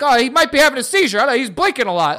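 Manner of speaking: high, fast fussy worrier; mock panicked staff. Mocking a school calling parents over blinking, high and fussy. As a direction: imitate an overanxious school caller.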